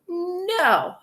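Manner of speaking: high, drawn-out NO; yelled refusal. A narrator's reading. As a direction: holler No all together. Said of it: "all yelled".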